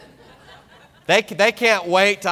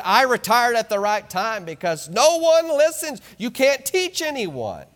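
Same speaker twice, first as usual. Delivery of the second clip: imitating father-in-law; 6 semitones higher than usual. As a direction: lightly voice a tired retired teacher. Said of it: "he said".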